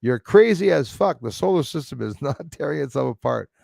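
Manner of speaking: lightly voiced indignant commenter; a hint of a put-on commenter voice; comment-reader's voice. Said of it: "tries to put a voice to a comment".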